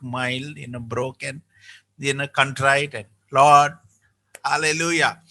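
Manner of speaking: ordinary talk, nothing marked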